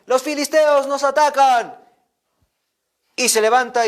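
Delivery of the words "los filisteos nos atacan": high, loud, slow alarm call; shouted warning. Acted. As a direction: cry out the attack. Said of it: "le gritan".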